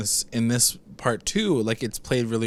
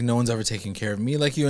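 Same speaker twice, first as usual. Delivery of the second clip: doe-eyed; faster than usual. Retold or imitated. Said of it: "putting on her, like, doe eyes now".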